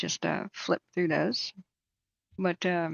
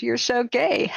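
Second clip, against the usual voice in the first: higher squawky bird voice; imitating the bird; 5 semitones higher, slower than usual. Owner imitating her bird taunting the painter, higher. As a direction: parrot repeating a taunt, lightly voiced. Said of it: "he kept calling him gay".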